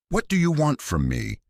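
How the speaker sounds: high, frightened call into the dark. Acted. Woman calls out to voices behind the door, high and scared. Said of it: "she called out".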